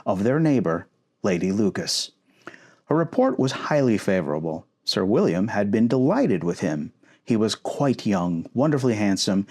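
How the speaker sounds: calm, even reading aloud of a novel; story narration. Acted. Tiny man reads chapter three to his partner, calm narration. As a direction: read the chapter like a bedtime book.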